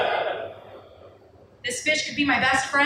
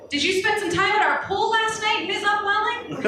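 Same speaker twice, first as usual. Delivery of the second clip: snooty manager voice; 7 semitones higher than usual. Acted. Manager Fish accusing the narrator.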